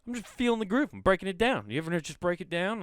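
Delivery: high, silly voice while dancing; goofy high voice. Retold or imitated. Comic dancing at Taco Bell for niece, goofy high voice. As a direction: pitch way up like a grooving goof. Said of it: "I was like".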